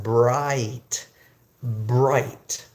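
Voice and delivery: "bright" said slowly as a separate word; pronunciation demo. Shown as a demonstration. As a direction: model "bright" with a long eye vowel. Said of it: "Pronounce it like that".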